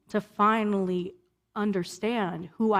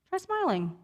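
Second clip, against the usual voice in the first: much higher, sing-song "Try smiling"; mock the patronizing suggestion; lightly sarcastic chirp; sarcastic advice; 11 semitones higher than usual. Mocking unhelpful advice.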